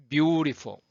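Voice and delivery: "beautiful" with a drawn-out "beau", falling away after; lengthened stressed syllable. Shown as a demonstration. Teacher showing learners how to give time to a word's center, "beautiful" with long "beau". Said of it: "이렇게 그냥 길게 두는 거죠".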